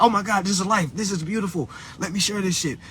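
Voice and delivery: lightly gushing imitation of own awe; retold wonder. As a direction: lift the pitch in mock amazement. Retells own awe on seeing birth.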